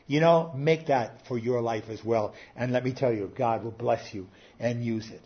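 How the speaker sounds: ordinary delivery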